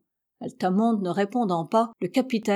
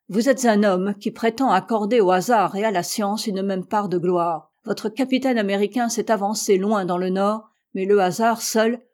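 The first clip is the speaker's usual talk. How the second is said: barely contained; 3 dB louder than usual. Acted. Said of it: "d'une voix à peine contenue".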